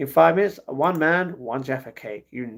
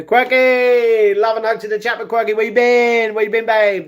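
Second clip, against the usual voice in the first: high, loud, delighted welcome; thrilled to see them back; excited greeting; 8 semitones higher, 9 dB louder than usual. Real, not acted. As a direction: call out to a friend who has been away. Greeting a returning chatter.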